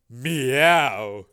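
playful meow. Acted. Debbie purring at Tracy.

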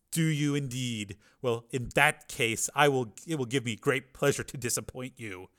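slow, measured defiance; bemused. Acted. Cornered gunman about to defy his captor, slow and bemused. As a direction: take your time, coolly amused. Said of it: "with a bemused expression".

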